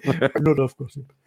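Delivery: laughing. Pretend. Repeats the quote laughing.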